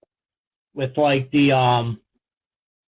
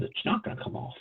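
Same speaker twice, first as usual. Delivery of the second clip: whispered tease; 9 semitones higher, 10 dB quieter than usual. Real, not acted. Teasing aside to friend.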